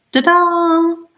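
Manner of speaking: playful triumphant ta-da. Real, not acted. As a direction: present the fix like a magic trick. Reveals fixed Nightbot settings.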